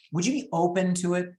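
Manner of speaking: casual question with "open" picked out by emphasis. Shown as a demonstration. Agent sounding out a seller on commission, "open" stressed. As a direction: lean gently on "open". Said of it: "Again, the emphasis, the tone".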